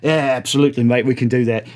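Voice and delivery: easygoing singer in a lightly put-on British accent; bad British accent. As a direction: agree casually in a hammy British accent. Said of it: "Again, terrible accent".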